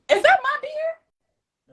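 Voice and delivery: high, loud, drawn-out suspicion; sudden loud alarm, stretched out; alarmed question. Real, not acted. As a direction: break off into an indignant, high-pitched question. Suddenly suspects beer was taken.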